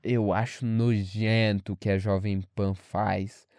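retold disgusted tone. Classmates condemning Jovem Pan, retold disdain. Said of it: "nesse nível e nesse tom".

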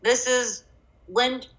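talking through chocolate; chewing while talking. Real, not acted. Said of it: "if you hear me munching".

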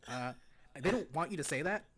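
lightly condescending deadpan pundit impression; Ben Shapiro. Pundit judging rap lyrics for co-host, mildly condescending impression. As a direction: read the lyrics like a judging commentator, half-committed. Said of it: "your best Ben Shapiro impression condescension voice".

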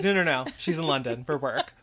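quick, brushed-past denial; imitating hasty reassurance. Carrie explains Samantha's absence, imitated hasty cover-up. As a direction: hurry through it to cover up. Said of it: "but says it so quickly".

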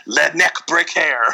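'Redneck Brick Hair' as French-style 'led-neck breek-air'; name said in a hokey French accent; mock French accent. Podcaster quoting the killer's nickname, mock French accent. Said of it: "how to do French accents".

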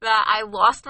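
talking through laughter; words bubbling with real laughter; laughing. Real, not acted. Recalling a friend's funny accent.

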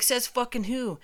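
high-pitched challenging retort; mock indignant holler; retold yelling back. Man challenging the guy in the slide, yelling back. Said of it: "we're yelling back at him".

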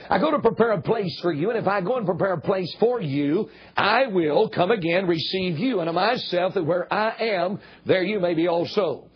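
"you" given weight at phrase ends; stress on YOU. Real, not acted. Preacher quoting Jesus' promise to the congregation, stress on "you". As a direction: lean on each "you". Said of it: "I emphasize the word "you".

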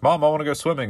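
put-on high whiny little kid asking; a child begging mom to swim. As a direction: play the eager small boy.

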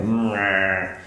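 drawn-out mock "mmwah"; playful wordless "mwah" as a reaction; imitated "mwah" noise. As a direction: make a long comic "mwah" sound. Imitated noise after closing shift.

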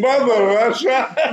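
slow, lightly voiced Russian accent on "Mother Russia"; a hint of a Russian patriot, drawn out; mock Russian accent. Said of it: "not even the right accent".

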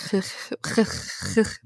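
exaggerated guttural French rasp; throat-scraping mock French noise; imitated French throaty R. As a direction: mimic a French R like coughing up a fur ball. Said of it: "just the way he says".

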